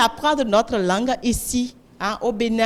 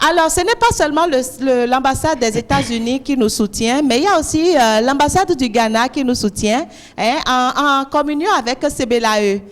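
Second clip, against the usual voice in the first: rousing announcement; 2 semitones higher, 6 dB louder than usual. Real, not acted. Host hypes crowd at ceremony.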